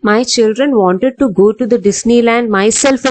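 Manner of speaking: slow, careful wrong version; teacher showing the wrong sentence; wrong example, slow. Shown as a demonstration. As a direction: read out the incorrect form slowly. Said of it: "എന്ന് വരില്ല".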